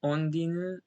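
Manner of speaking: "Ondinu" opening on an O sound; Japanese O sound. Shown as a demonstration. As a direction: say "Ondinu" with O first, not U. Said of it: "pronounce it with an O sound".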